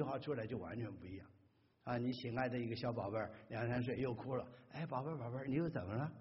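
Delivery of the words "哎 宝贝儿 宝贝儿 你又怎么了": put-on a touch of fond baby-talk; tender to a child. Shown as a demonstration. Parent soothing a crying two-year-old, tender. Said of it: "你就很爱心的".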